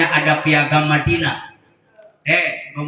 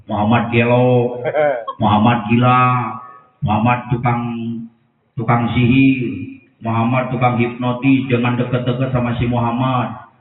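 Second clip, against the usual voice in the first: blind man's insults; 4 semitones lower than usual. Acted. Blind Jewish man jeering at the Prophet in the market, lower mocking voice. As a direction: sneer the insults over and over. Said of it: "Ngomongnya begini".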